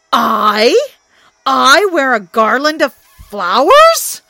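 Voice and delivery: furious disbelieving shout; outraged Thor. Acted. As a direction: refuse it with a bellow.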